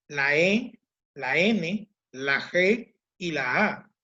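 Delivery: slow, letter by letter; spelling out letters. Shown as a demonstration. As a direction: spell it out slowly. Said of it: "estamos hablando de la V".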